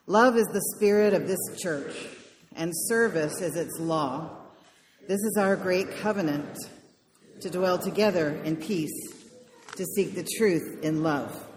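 congregation reciting together; many voices speaking in unison; group in unison. Real, not acted. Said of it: "Let us say together the words".

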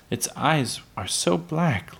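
put-on high, slow, tearful child; a touch of tears in a little girl's high voice; mild mock sob. A narrator's reading. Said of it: "Laura sobbed".

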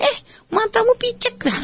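high, harsh yell of warning; rude shout. Retold or imitated. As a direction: bark it out like a rude passerby. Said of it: "ada orang langsung teriakin Anda". (teriakan kasar dan tinggi)

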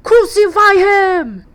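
slow, high, loud shouting. Acted. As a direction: drag out the demand like an angry mob. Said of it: "kept crying out the more".

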